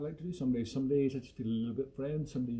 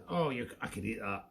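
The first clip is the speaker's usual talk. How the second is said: Toki's voice; 4 semitones lower than usual. Pretend. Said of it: "this is what I imagine Toki says".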